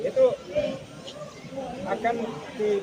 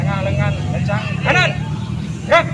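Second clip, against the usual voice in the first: loud command with clear intonation; firm drill command; 6 dB louder than usual. Shown as a demonstration. Instructor demonstrating a firm command to cadets. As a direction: give the order firmly. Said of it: "harus tegas, harus memberikan intonasi".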